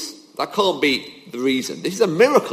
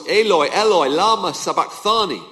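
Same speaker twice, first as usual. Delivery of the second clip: loud cry; 3 semitones higher than usual. Retold or imitated. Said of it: "cried out in a loud voice".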